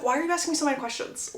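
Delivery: mock-exasperated, hurried question; quick questioning. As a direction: fire the question back in one quick run. Acted exasperated question, first take.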